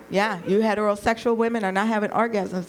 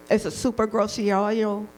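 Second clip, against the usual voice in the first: mock Spanish; 3 semitones higher than usual. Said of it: "That's my Spanish".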